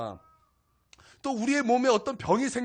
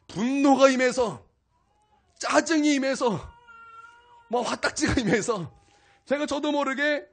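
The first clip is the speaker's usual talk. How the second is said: building fervor; 4 semitones higher, 5 dB louder than usual. Real, not acted. Preacher building intensity.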